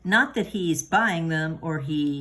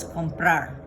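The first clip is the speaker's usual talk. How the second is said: "comprar" with the last A raised; stress on the A. Shown as a demonstration. Teacher showing students where the stress falls. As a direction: say "comprar" lifting the voice on the final "prar". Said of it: "think about how that word sounds".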